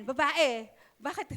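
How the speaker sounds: curt "Babae", then a quick rising "Bakit?"; dismissive, clipped question; rude address. Shown as a demonstration. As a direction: snap at her without respect. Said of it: "Hindi, hindi, hindi ganun".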